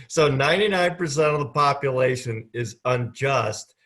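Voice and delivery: said with conviction; mean every word; like you believe it. Shown as a demonstration. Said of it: "say it like you believe it".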